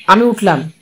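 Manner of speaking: plain reading voice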